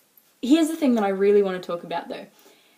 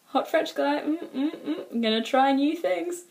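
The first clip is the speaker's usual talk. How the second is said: higher-pitched mock swooning; playful, hammed-up eagerness in a raised voice; imagined excited exchange student; 5 semitones higher than usual. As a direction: hum with pretend appreciation. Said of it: "what you imagine is, is something, like, a little like this".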